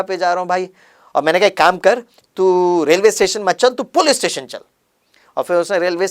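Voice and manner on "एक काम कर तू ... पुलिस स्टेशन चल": angry threat. Retold or imitated. Threatening the late driver.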